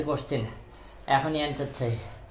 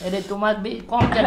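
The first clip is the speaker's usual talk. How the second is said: laughing tease; 8 semitones higher, 5 dB louder than usual. Real, not acted. Laughing tease about portion.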